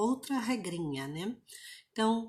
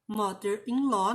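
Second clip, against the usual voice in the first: "Mother-in-law" with MOTHER stressed; first syllable stressed. Shown as a demonstration. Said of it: "sílaba tônica".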